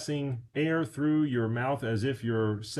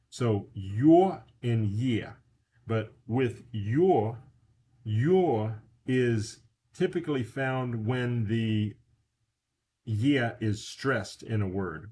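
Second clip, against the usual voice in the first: slow teaching pace; slower than usual. Shown as a demonstration. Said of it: "that's pronounced yeah".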